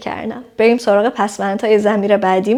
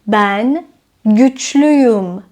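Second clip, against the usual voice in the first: güçlüyüm spoken very slowly, every syllable clear; slow model sentence; 4 dB louder, much slower than usual. Shown as a demonstration. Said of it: "مثلاً". (güçlüyüm را آهسته و شمرده بگو)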